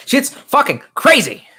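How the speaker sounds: loud, high, stretched-out exclamation; hammed-up slow yell; mock outburst. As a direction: draw each word out, high and loud. Repeats line with mock hype.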